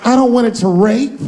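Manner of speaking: high, slow mock whine of a heartbroken fan; a fan wailing over his favourite treat, high and slow. A fan mourning chocolate ice cream, mock whining. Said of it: "You'd say to yourself".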